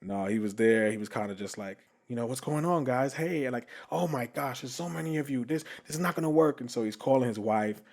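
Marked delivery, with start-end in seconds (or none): 2.3-6.6 higher-pitched mock fluster; flustered host. Host flustered at seeing so many guests, high-pitched imitation. Retelling host's flustered greeting.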